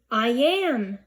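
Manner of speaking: delighted squeal. A narrator's reading. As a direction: burst out in relief. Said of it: "I squealed".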